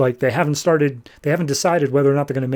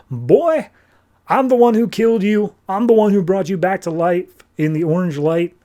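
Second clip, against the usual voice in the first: high-pitched retold put-down; indignant boast; 5 semitones higher than usual. Master answers the rebels, indignant boast. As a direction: act out a master pulling rank, voice raised in pitch.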